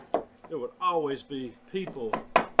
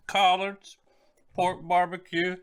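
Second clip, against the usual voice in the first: excited; 5 semitones higher, 4 dB louder than usual. Real, not acted. Final food sign-off.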